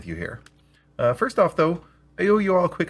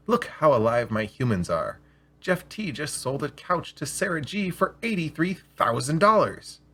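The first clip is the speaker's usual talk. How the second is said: a sales AI showing off its humans; boastful salesman; slower than usual. Acted. AI boasting about fake sales.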